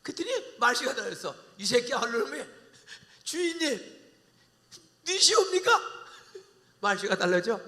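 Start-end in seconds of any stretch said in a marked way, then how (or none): 3.2-5.8 high, rising, meek address; awed servant voice; suddenly humble reply. Acted. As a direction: tone changes to humble.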